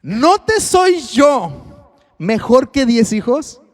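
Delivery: a slow wounded husband's plea; husband's question. Acted. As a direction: stretch it out like a hurt husband. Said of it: "la última pregunta".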